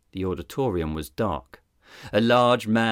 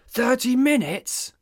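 much higher, roaring disbelief; roared. Acted. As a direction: roar it at the deputy. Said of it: "Sizemore roared".

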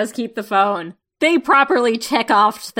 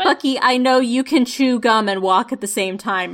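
mock-exasperated telling-off, a bit raised; exasperated scolding; 2 semitones higher, 4 dB louder than usual. Viewer scolding Bucky during his phone call, mock-exasperated. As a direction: scold him like a let-down fan.

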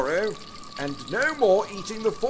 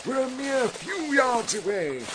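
rallying captain; 6 semitones higher than usual. Acted. Scott urges his men across the snow, high and rallying. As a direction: cheer the men along up high.

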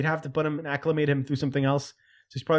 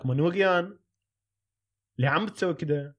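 bad Arabic accent; much faster than usual. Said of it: "I have terrible accents".

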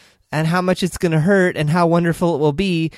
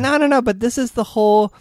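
excited push back; 6 semitones higher than usual. Real, not acted. Cutting in to argue back.

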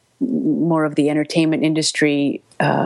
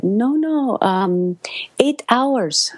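correcting woman; 6 semitones higher, much slower than usual. Retold or imitated. Voicing Japanese woman's correction.

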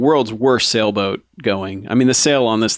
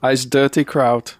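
slow, put-on German accent; mock German accent; slower than usual. Imitating the exposed commander, mock German accent. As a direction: draw out a fake German accent. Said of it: "faux German accent".

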